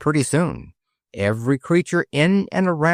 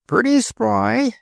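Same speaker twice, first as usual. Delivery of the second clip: Cockney sparrow; 10 semitones higher, slower than usual. A narrator's reading. Cheapside voiced in Cockney.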